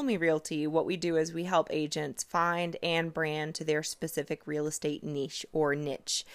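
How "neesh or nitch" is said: "niche" as neesh, then "niche" as nitch; two pronunciations. Shown as a demonstration. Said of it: "how a lot of people say it".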